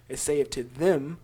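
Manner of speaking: slow reading, weight on "them"; stress on "them". Real, not acted. Teacher repeating the verse for listeners, emphasizing "them". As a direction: stretch out "them" to single it out. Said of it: "I'm gonna emphasize certain words".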